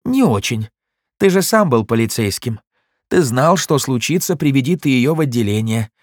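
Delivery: mock the hero's sainthood; taunting crooked cop. Goldstein keeps taunting.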